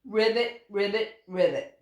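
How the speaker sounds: lightly croaked ribbits; a hint of a puffed-up frog; croaking frog. A narrator's reading. Proud frog croaks back at the owl, lightly voiced. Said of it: "puffed himself up and croaked".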